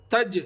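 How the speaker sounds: تج with the final ج rebounding; qalqala echo. Shown as a demonstration. Teacher showing the echo on تج. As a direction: snap the ج of تج out with an echo. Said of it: "ایسا double آواز آنا".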